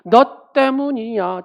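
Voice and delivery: slow, loud blaming; accusation. Retold or imitated. A nation blaming the other side, slow and accusing. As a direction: hammer the blame slowly. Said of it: "국가도 마찬가지입니다".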